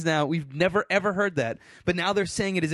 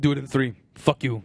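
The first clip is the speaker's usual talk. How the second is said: lightly voiced gruff-talking mine boss, lower; Tony; 4 semitones lower than usual. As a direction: do a rough impression of a curt miner. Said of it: "I can kinda do Tony".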